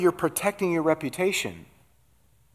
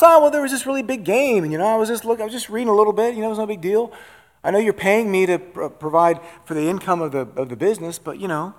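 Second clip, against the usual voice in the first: high, loud, defensive excuse voice, easing back down; making excuses; 6 semitones higher, 6 dB louder, faster than usual. Acted. Employee caught slacking making excuses to the boss, defensive and high. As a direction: babble the excuses to dodge the blame.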